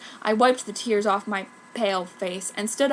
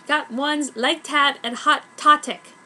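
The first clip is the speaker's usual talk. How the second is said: fanfic author voice; 4 semitones higher, 5 dB louder, slower than usual. Retold or imitated. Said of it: "Author's note".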